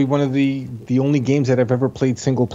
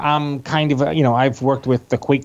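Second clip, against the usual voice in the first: nerd voice. Retold or imitated. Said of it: "Was that your nerd voice".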